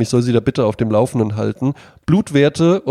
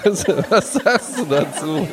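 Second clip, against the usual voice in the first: to someone hard of hearing; 6 semitones higher, slower than usual. Pretend. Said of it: "Du musst lauter sprechen".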